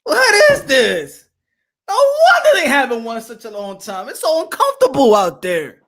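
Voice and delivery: high, shouted outrage at the seats; hammed-up stadium rant; mock outraged yell. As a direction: yell it like a fed-up fan. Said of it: "I'm like".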